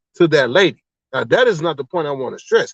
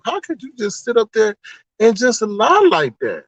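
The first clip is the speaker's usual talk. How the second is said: disbelief; 5 semitones higher than usual. Retold or imitated. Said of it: "I was like".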